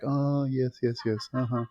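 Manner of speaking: lightly cooing mock agreement; subtle feigned sympathy. Imitating Larry subtly asking her to move, feigned sympathy. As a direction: humour her with put-on understanding. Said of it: "this, like, more subtle way".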